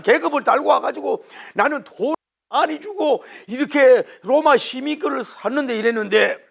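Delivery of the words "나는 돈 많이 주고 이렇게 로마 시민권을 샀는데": boastful tribune. Acted. Tribune quoted, high and loud.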